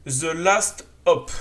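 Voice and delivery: The Last Hop said slowly, each word apart; careful pronunciation. Real, not acted. Vlogger unsure of an English subtitle, slow careful pronunciation of The Last Hop. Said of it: "je sais pas si j'ai bien prononcé".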